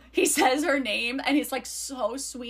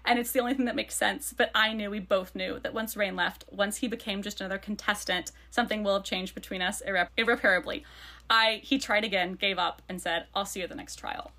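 lower, measured read from a novel; subdued book narration; reading aloud; 4 semitones lower than usual. A narrator's reading. Reads a passage from the book.

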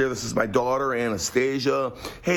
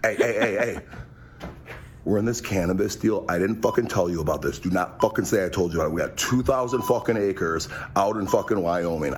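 secretive country club guy; 4 semitones lower than usual. Retold or imitated. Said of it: "here's my impression of country club people".

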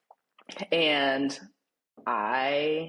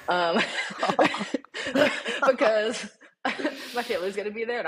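higher-pitched, laughing as she explains; talking through laughter; 7 semitones higher, 3 dB louder than usual. Real, not acted. Telling a friend about calling the clinic before family arrives, laughing. Cracks up telling her own story.

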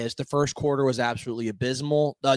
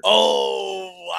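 surprised shout; 6 semitones higher, 6 dB louder than usual. Real, not acted. Hears the Lot Lizard name.

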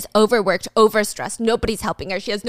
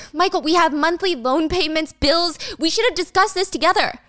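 higher, upset protest; angry wife; 6 semitones higher than usual. Retold or imitated. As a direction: push back at him, finally angry. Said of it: "Gia, for the first time, is angry".

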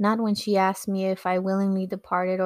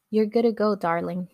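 lightly imitated American accent. Elderly agent sending the traveler on, American accent. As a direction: quote him with a touch of American accent. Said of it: "with his American accent".

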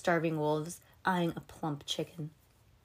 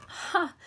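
chilly laugh; 11 semitones higher than usual. Acted. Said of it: "chilly, tingling sound ... a laugh".

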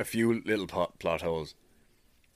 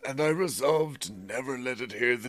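dramatic storytelling read, higher than usual chat; story narration; 6 semitones higher than usual. A narrator's reading. Reader tells friend a creepy bird tale, dramatic narration. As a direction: read the creepy diary aloud with relish.

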